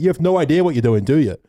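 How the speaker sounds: scolding ranger. Retold or imitated. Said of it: "He's like".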